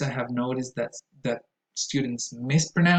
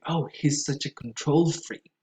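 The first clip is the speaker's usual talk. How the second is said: control in "control freak" as con-TROL; stress on second syllable; 2 semitones higher than usual. Shown as a demonstration. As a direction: example sentence hitting TROL in control. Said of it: "the stress goes on the second syllable".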